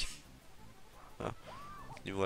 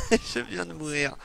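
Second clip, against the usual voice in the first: laughing shout; 6 semitones higher, 5 dB louder than usual. Real, not acted. Laughs after dying, then repeats calmly.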